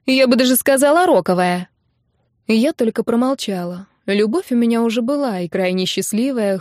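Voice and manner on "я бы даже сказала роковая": teasing. Acted. Teasing continues.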